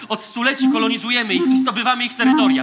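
rising outraged commander's speech; pompous commander building to a furious rebuke; indignant tirade. Acted. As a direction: scold the recruit with mounting indignation.

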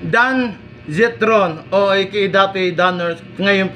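chewing pizza while speaking; talking with food in mouth. Real, not acted. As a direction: mouth partly full of food. Seen 1: Pizza bits visible between teeth while talking; eaten just before.

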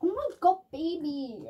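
high gushing coo; cooing at a pet. Real, not acted. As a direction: gush over a cute pet. Cooing at the cat.

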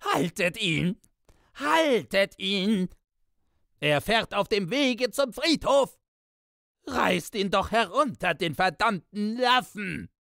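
very high, screaming rage; raving. A narrator's reading. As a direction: rave and curse at the top of your voice. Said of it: "Piepsam tobte noch immer".

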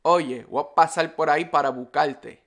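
Puerto Rican accent, R turned to L, S dropped; quick, run-together Puerto Rican Spanish. Shown as a demonstration. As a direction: say it like a Puerto Rican, "buscarte" as bucalte. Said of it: "if it's in Puerto Rican Spanish".

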